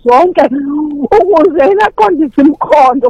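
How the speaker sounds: slow, drawn-out verse recital; scripture recitation. Acted. Testifying believer quotes scripture to fellow worshippers, slow, drawn-out recitation. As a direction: recite it slowly, stretching the key words.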